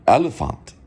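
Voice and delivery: "elephant" as German el-eh-FAHNT; eloquent German. Shown as a demonstration. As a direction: elegant demo of German "elephant". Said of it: "It sounds very eloquent".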